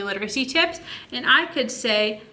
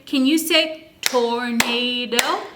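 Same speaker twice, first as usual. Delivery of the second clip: put-on slow prompt to child; slower than usual. Shown as a demonstration. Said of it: "and then you say".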